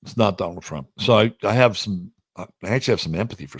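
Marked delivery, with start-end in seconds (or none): 0.0-0.9 It's not Donald Trump said softer, not falling; soft, settled echo of the denial; quieter repeat. Real, not acted. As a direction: drop the voice and repeat it. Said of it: "I can tell you right now".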